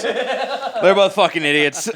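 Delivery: slow laughing repeat. Real, not acted. Cohost giving up on the couple, laughing slowly. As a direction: let the laugh break through slowly.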